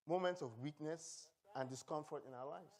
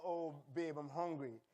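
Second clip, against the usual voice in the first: put-on Nigerian accent; 4 semitones lower, 3 dB quieter than usual. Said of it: "I lose my American accent".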